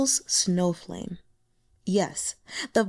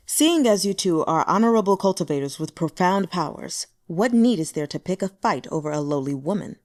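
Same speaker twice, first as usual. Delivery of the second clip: a hint of a cool, placating swordsman; smooth things over, lightly in character; lightly voiced calm cultivator. Wen Ren voiced placatingly.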